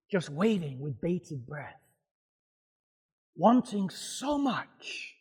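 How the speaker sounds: soft, slowing, held-back breath; hushed anticipation. Acted. Preacher picturing the Spirit waiting with bated breath, hushed. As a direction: drop to an eager hush, stretching the words.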